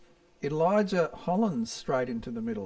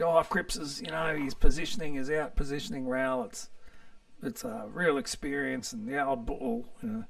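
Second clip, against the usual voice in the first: Brownie voice; 2 semitones higher than usual. Retold or imitated. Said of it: "I'm doing Brownie's voice".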